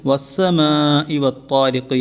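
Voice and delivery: "വസ്സമാഇ വത്താരിഖ്" recited slowly, holding the madd; elongated recitation. Shown as a demonstration. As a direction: draw out the long vowels in "വസ്സമാഇ വത്താരിഖ്". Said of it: "നീട്ടി ഓതണം". ("വസ്സമാഇ വത്താരിഖ്" നീട്ടി ഓതുക)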